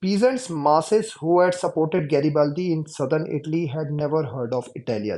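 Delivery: slow, deliberate reading aloud; textbook reading. Shown as a demonstration. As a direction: read each word out slowly for the class. Reads textbook passage aloud. (धीमे-धीमे किताब से पढ़कर सुनाना)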